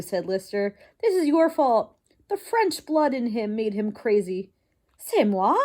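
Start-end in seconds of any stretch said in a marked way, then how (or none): 1.0-4.5 blaming father mouse. Acted. Husband blames wife. 5.0-5.5 louder, indignant French exclamation; offended French mouse. Acted. Wife offended by blame.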